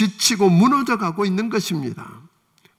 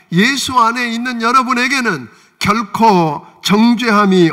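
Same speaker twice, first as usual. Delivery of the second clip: louder, forceful sermon proclamation; emphatic preaching; 5 dB louder than usual. Real, not acted. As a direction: preach it out firmly to the congregation. Preacher proclaims freedom from condemnation.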